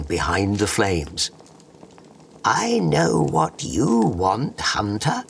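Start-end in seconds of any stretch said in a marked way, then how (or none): 2.4-5.2 slow, high, otherworldly fairy bug; airy magical creature voice; clicking beetle. Acted. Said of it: "whispered the bug".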